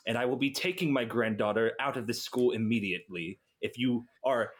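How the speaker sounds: lightly voiced gruff, vaguely European grandfather. Disguised grandfather confronting professors about his granddaughter, lightly gruff. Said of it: "I'm just gonna talk kinda gruff".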